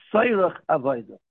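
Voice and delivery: emphasize Tzairach to set it apart from Avodah; stress on Tzairach. Real, not acted. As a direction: lean firmly on the word Tzairach. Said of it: "I'm stressing the word Tzarech Avodah".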